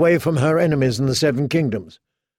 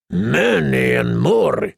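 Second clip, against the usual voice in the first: irritable; much slower than usual. Acted. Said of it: "he said irritably".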